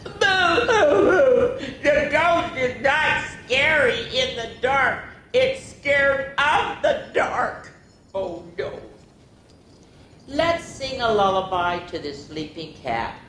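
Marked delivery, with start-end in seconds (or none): 0.0-7.7 high loud laughing boo; giggly mock scare; playful boo. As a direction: spook the kids then giggle.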